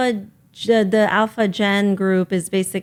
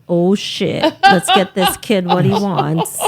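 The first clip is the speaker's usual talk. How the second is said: put-on hammy Italian mobster accent; mock Italian accent, laughing; bad Italian accent; slower than usual. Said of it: "my bad Italian accent".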